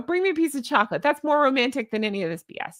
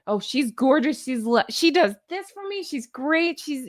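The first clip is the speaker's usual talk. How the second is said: over the top. Shown as a demonstration. A host mocking gushy compliments, lightly overdone. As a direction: lay the praise on a little thick. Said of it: "you could go over the top and go".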